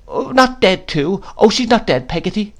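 high, slowed, dreading question; fearful child. A narrator's reading. Boy fears his mother is dead, frightened.

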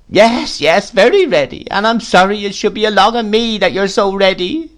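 a widow wallowing in her misery; self-pitying widow. A narrator's reading. Plays Mrs Gummidge.

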